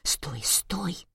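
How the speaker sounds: hushed, breathless warning; urgent whisper. Acted. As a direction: whisper so no one hears. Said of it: "прошептала она".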